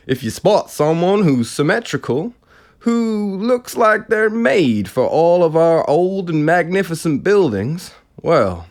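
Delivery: high-pitched, bad American radio announcer; relentlessly jovial. Radio presenter announcing a council deal, jovial bad American accent. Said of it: "the radio presenter went on".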